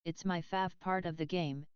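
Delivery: robotic synthetic reading voice; flat machine voice reading chat; bad text-to-speech. Real, not acted. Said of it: "the T T S read your message".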